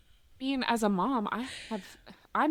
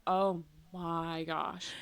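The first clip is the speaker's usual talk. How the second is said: softer and very slow, awed murmur; hushed aside; 6 semitones lower, 6 dB quieter, much slower than usual. Retold or imitated. Viewer reacting to crying contestant, soft slow awed aside. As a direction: breathe it out slowly under the moment. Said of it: "And I was like".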